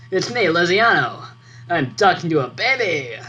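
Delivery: lightly put-on cooing baby talk; a hint of talking to a baby. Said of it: "Talking in baby always makes it easier".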